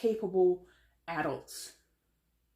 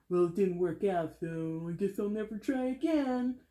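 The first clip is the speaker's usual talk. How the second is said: mimicking a pity party, rising in pitch; put-on poor-me voice of a quitter; mock self-pity; 2 semitones higher than usual. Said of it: "Enough with the pity party".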